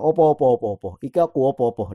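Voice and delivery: imitating a sudden switch to Javanese dialect. Scammer to his target, mimicked in a Javanese dialect. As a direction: mimic a caller putting on Javanese. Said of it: "Itu langsung berubah dialeknya".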